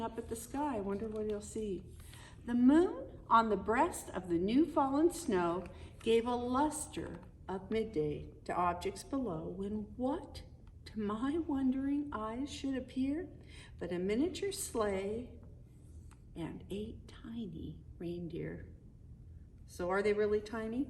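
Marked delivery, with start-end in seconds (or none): 2.5-15.3 lilting read-aloud poem voice; storybook narration. Acted. Parent reading the Christmas poem to the kids, lilting storybook narration. 16.4-18.7 whispered, much softer reveal; hushed whisper. Acted. Parent revealing the tiny reindeer to the kids, whispered.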